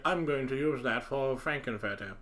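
put-on plummy British accent; exaggerated upper-class British accent; very posh British accent. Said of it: "in a very posh accent".

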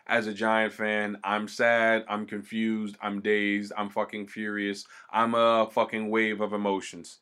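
low, quiet and dejected; a deflated Giants fan, voice sunk down; sad dejected tone. Real, not acted. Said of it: "you heard my tone and everything fucking change".

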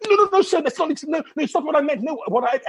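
a mortified check-in clerk rushing to apologise; flustered clerk. Retold or imitated. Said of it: "She goes".

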